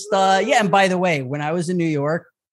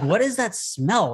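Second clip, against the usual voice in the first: puzzled sniff; 5 semitones higher, slower than usual. Retold or imitated. Mock reaction to a strange smell.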